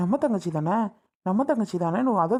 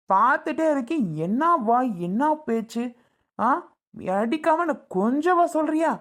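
angry retort; 4 semitones higher than usual. Acted. Husband defending the beating to the brother, angry. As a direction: snap back, fed up. Husband justifies hitting his wife.

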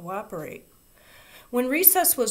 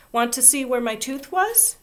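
higher, louder eager question; eager child; 6 semitones higher, 5 dB louder than usual. A narrator's reading. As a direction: proudly show off the gap. Ramona asks again eagerly.

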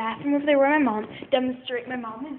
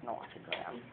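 whiny dog voice; 12 semitones lower, 12 dB quieter, faster than usual. Pretend. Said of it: "She's like".

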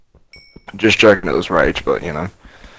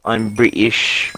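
bad British accent; slower than usual. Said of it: "That is so far from British it hurts".

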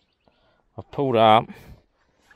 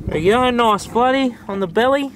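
cooing to fish; 12 semitones higher, 10 dB louder than usual. Real, not acted.

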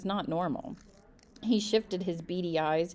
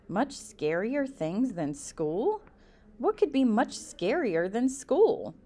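1 puzzled disbelief; 4 semitones higher, slower than usual. Acted. Alvin puzzled, echoing teacher.

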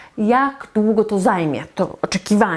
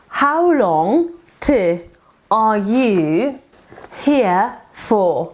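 slow broken model; much slower than usual. Shown as a demonstration. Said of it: "How long are you here for?".

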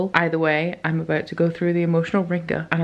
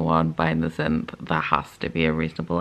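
shocked disbelief; 13 semitones lower than usual. Real, not acted. Shocked plot twist.

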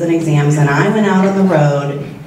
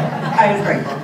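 said again through a laugh; light laughing restatement; laughing repeat; 4 semitones higher than usual. Real, not acted. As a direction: repeat it with a chuckle.

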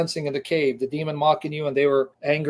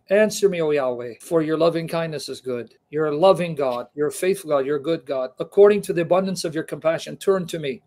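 fervent Bible reading; emphatic scripture reading. Acted. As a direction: proclaim the psalm like a prayer of distress. Reads psalm aloud.

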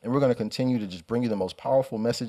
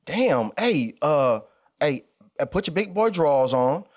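higher-pitched retelling of a disgusted mom; disgusted mother; 5 semitones higher, 3 dB louder than usual. Retold or imitated. Mother tells her crying son to toughen up, mock disgust. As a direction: imitate a mother's exasperated tough love. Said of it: "I could hear the disgust in her voice".

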